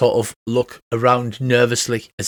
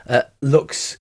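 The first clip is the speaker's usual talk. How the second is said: usual speaking voice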